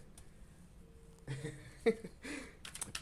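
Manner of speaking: high, airy giggle; giggling. Real, not acted. Reader making fun of herself, giggling. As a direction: giggle helplessly at yourself. Laughs at her shitty accent.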